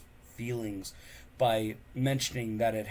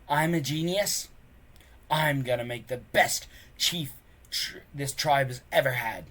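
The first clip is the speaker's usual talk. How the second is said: pleased with himself, a bit louder; smug; 3 semitones higher, 4 dB louder than usual. Acted. Bully bragging to his gang, smug. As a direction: preen over the win. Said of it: "very pleased with himself".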